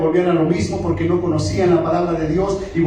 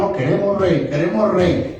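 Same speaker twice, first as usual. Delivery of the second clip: acted stubborn insistence; 5 semitones higher than usual. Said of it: "Y se aferraron".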